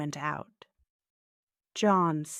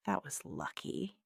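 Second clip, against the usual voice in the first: softer inward remark; thinking to himself; 7 dB quieter than usual. A narrator's reading. John alone after overhearing police, thinking to himself. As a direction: drop the volume, as a private thought. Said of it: "he thought".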